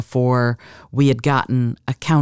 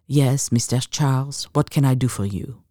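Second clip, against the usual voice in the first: put-on lightly French-accented, measured reply; a hint of French in a poised woman's voice; subtle French accent. Elegant woman answering the accountant, subtle French accent. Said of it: "softened by a subtle French accent".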